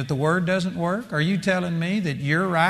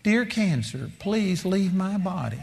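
mock meek prayer; 2 semitones higher, 3 dB quieter than usual. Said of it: "this is the way some of you do".

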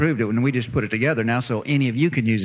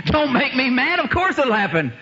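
confident retort; 10 semitones higher than usual. Retold or imitated. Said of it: "That's what he said".

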